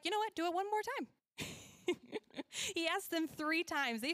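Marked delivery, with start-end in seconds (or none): 0.0-1.1 cocky dare. Retold or imitated. Elijah taunting, pile on water.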